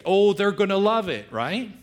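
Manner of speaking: high, loud, delighted inner voice; gleeful gift giver. Retold or imitated. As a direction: gush like you can't wait to give it. Voicing a gift planner.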